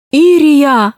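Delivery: calling out. A narrator's reading. Tadeusz calls to his wife over the noise. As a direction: call your wife across the hall. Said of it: "Голос Тадеуша перекрыл шум зала".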